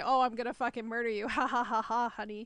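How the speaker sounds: acted-out, joking, playful mock menace. Showing how a threat to a partner sounds when said jokingly: acting out a joking threat. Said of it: "you could jokingly say".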